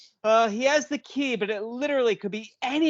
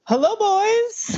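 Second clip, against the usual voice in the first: sultry greeting; 12 semitones higher, 7 dB louder, slower than usual.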